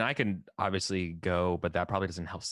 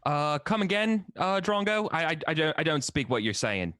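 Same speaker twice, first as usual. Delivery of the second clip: mocking high voice; 9 semitones higher, 4 dB louder than usual. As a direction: play dumb in a squeaky voice. Pilot mocking enemy on comms.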